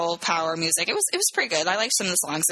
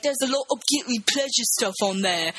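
put-on British accent, raised pitch; Keira Knightley; 5 semitones higher than usual. Woman confessing about her playlist, mock British accent. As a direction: imitate a British actress with an exaggerated accent. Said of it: "like, a British accent".

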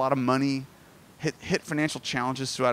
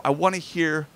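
grandpa's savouring delivery. Retold or imitated. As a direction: imitate grandpa, drawing out JESUS reverently. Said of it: "he would say it like that".

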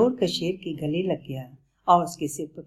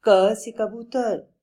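slow, louder, spelled-out teacher voice; slow teaching; 6 semitones higher, 5 dB louder, slower than usual. Shown as a demonstration. Bablu teaches the lion his letters, slowly. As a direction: sound it out for a learner. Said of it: "teaching the alphabet slowly".

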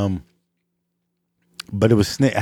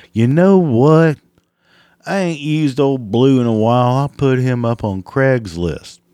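mock dimwit seller; 4 semitones higher, 5 dB louder than usual. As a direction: sound like a proud idiot. Imitating seller's bright idea.

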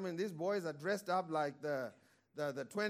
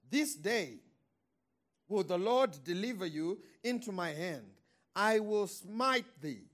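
mock biblical prophet. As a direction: declare it like David to Goliath. Reading David's defiant speech.

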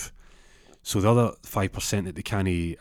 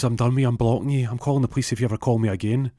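raised, hurried ultimatum; acted-out breakup threat, speeding up; fed up; 4 semitones higher, 4 dB louder, faster than usual. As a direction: cut him off with angry finality. She ends it on phone.

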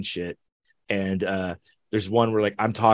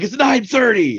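much higher, louder disbelief; mock incredulous bandmate; 13 semitones higher, 6 dB louder than usual. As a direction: scold him about drinking this early. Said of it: "He's like".

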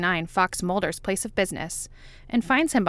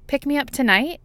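smiling; 8 semitones higher, 4 dB louder than usual. A narrator's reading. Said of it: "she says with a smile".

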